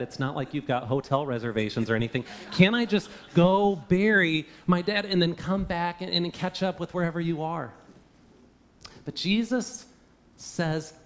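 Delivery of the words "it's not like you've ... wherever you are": laughing. Acted. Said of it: "disciple pleading, laughing".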